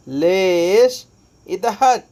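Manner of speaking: लेश drawn out very slowly; slow drilled word. Shown as a demonstration. Teacher stretching लेश very slowly for students. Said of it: "यानी".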